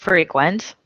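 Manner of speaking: frequent whispered, stressed fre-QUENT; whispered take. Shown as a demonstration. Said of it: "homographs list".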